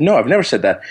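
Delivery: even, matter-of-fact retold denial; simple denial. Doctor answers opposing attorney in court, simple retold denial. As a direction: quote your answer without heat.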